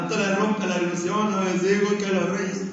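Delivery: imitating a son in tears, voice changed; half-hearted retold sob; mock crying. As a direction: play the grown son whimpering that the grandfather ruined it. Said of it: "Ya está llorando".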